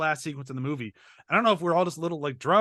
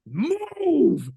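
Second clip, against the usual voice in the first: high, drawn-out hammed-up yell; mock movie scream; 12 semitones higher, 5 dB louder than usual. Quoting John Connor screaming at Star, hammed-up scream. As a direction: bellow it word by word, over the top. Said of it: "points and just screams".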